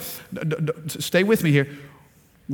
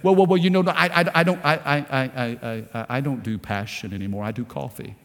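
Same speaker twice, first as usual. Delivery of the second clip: much lower and much softer, stammering excuse; mock tired believer; 6 semitones lower, 4 dB quieter than usual. Preacher mimicking a believer who gave up passion, low and quiet. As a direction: mumble like a worn-out churchgoer.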